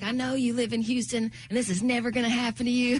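high, half-laughing lament; a touch of wailed despair, laughing; mock despair. Telling the usher, high laughing mock despair. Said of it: "I was like".

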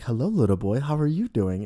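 lightly voiced sweet princess greeting, lilting up at the end; lovely Belle. Belle greets a little boy at the park, lightly put-on lovely. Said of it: "being all lovely or whatever".

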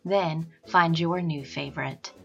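upbeat sponsor read. Acted. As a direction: read it like a podcast ad. Sponsor read over music.

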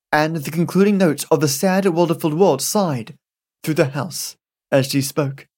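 ordinary delivery, nothing marked

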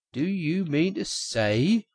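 high, drawn-out incredulous question; excited cry. A narrator's reading. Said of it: "cried the exciting Rat".

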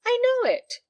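very high, loud outburst; impassioned cry. A narrator's reading. Daughter admitting she is loved, high impassioned cry. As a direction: cry it out at the top of the voice. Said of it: "cried Helen Clive".

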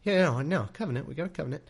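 lightly voiced God, wheedling and needy; a withdrawal-addled God begging for a sacrifice; craving God. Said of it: "He's like".

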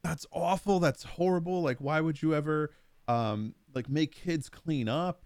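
put-on high, whiny kid voice; squeaky child appalled at chores; outraged kid. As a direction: mimic a horrified little boy, slowing at the end. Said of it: "he goes".

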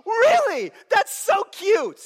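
high, loud, slow mock cooing; high teasing disbelief, drawn out; amused condescension. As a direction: patronize it like a toddler's tantrum. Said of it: "God is looking at it like he's like".

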